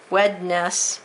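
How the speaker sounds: "Wednesday" said as wed-ness-day; spelling pronunciation. Shown as a demonstration. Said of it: "I have to say it this way".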